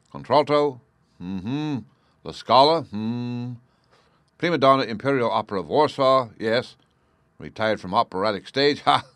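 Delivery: lightly voiced detective reading from notes; Holmes, musing detective. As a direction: think aloud over a file, then sum up.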